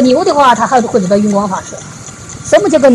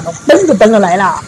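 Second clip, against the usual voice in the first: ordinary talk, nothing marked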